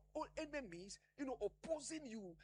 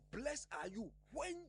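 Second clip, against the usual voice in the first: "when" held up on a rising tone; stress on when. Real, not acted. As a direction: underline the word "when", then pause. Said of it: "let us underline the word when".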